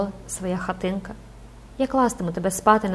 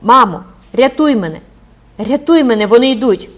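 loud, panicked cry for help; terrified scream to mother; desperate plea; 4 semitones higher, 9 dB louder than usual. Acted. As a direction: beg your mother to save you as they come. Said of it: "з відчаєм кинулася".

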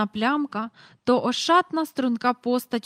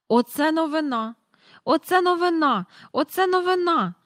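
higher and louder with each repeat; excited cry; 8 semitones higher, 5 dB louder than usual. A narrator's reading. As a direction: burst in shouting the news. Mr Banks bursts in excited. (схвильований вигук містера Бенкса, щоразу гучніше)

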